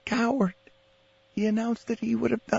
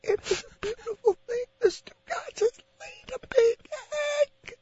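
laughing documentary voice; 14 semitones higher than usual. Pretend. Mock wildlife narration, laughing.

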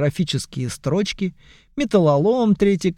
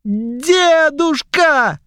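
very high, loud, drawn-out wail; wailing goblins; 11 semitones higher, 5 dB louder, much slower than usual. Acted. Young goblins wail to their grandfather, high and long. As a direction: wail like pleading kids. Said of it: "хором завопили гоблины".

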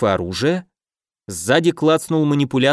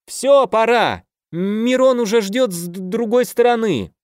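calling out; 9 semitones higher than usual. A narrator's reading. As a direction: shout it across the tent. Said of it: "крикнул". (громкий окрик)

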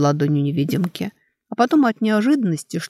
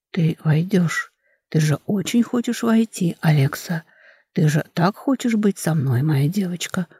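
coaxing rustle. Acted. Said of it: "шелестела уговаривающими нотками".

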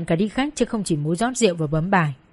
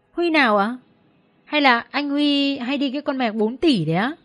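gossiping co-worker; 5 semitones higher than usual. Acted.

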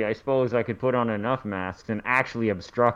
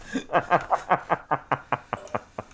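sinister laugh; 3 semitones higher than usual. Real, not acted. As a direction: laugh like a villain. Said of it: "Oh, that was a sinister laugh".

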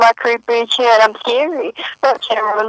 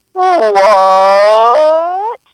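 confused what. Retold or imitated. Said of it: "I always sound like".

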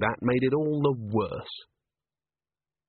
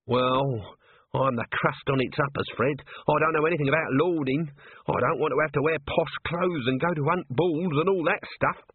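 higher, aggrieved little man; lightly voiced self-pitying corporal; 4 semitones higher than usual. Nobby complaining to Colon about his lot, higher and aggrieved. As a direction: feel hard done by, a touch higher.

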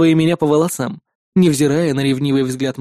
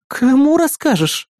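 higher, slow puzzled question; surprised question; 9 semitones higher, slower than usual. Acted. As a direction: stretch out the doubt. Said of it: "удивилась Кри". (удивлённый неспешный вопрос)

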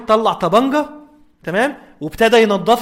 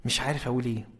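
quoted friend; 8 semitones lower, 14 dB quieter than usual. Retold or imitated. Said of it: "ويقول".

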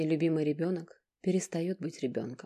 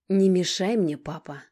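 loud, curt warning; angry warning; 4 semitones higher, 9 dB louder than usual. Acted. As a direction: warn him off.

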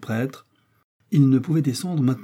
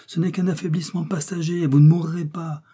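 insist, voice raised in pitch, to give hope; urgent reassurance; 6 semitones higher than usual. A narrator's reading. Kennedy denying the priest is dying, reassuring.

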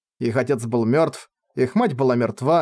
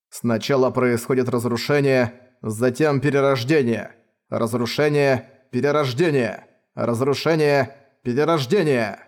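mad scientist. Acted. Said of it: "Люсиль очень тихо бормотал".

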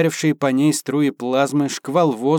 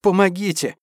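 desperate scream; 7 semitones higher than usual. Acted. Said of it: "истошно завопила".

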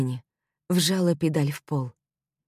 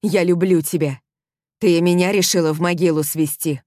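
angry shouting; 2 semitones higher, 7 dB louder than usual. Acted. He shouts love in anger.

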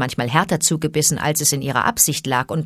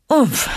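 startled grunt; 7 semitones higher, 3 dB louder than usual. A narrator's reading. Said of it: "stieß Mowgli hervor".

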